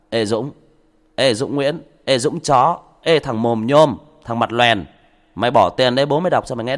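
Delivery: loud, rude mocking of a commenter; mock rude heckler. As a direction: bark insults like a rude troll. Mock rude commenter insulting him.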